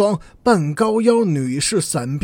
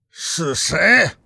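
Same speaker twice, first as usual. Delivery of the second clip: louder. A narrator's reading. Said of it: "声音提高了许多".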